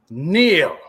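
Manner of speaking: commanding villain order; booming arrogant alien overlord. Acted. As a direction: demand they kneel, lordly.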